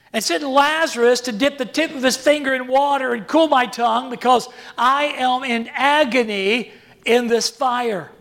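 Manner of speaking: anguished man begging from torment; agonized plea. Pretend. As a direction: plead in agony, rising. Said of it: "envision the agony of the one".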